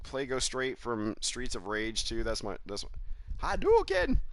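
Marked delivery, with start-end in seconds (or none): 3.6-4.2 very high shouted fireball call; Street Fighter Ryu. Retold or imitated. Streamer imitating the Street Fighter move call, shouting. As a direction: yell it like Ryu throwing a fireball. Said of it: "Here's my boy off of Street Fighter".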